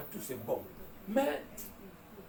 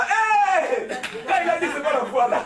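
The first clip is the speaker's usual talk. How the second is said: retold loud retort; 7 semitones higher, 10 dB louder than usual. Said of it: "J'ai dit".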